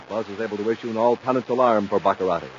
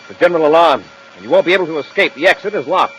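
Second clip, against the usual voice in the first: much higher and louder, fast; brash hero bravado; 8 semitones higher, 11 dB louder than usual. Acted. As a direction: crow it out loud and quick. Commander announces alarm triumphantly.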